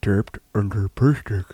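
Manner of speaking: booming circus ringmaster announcer. Acted. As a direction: announce it like under the big top. Podcast intro as circus announcer.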